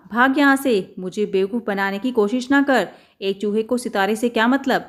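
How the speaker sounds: angry shooing. Acted. Shopkeeper drives mouse away.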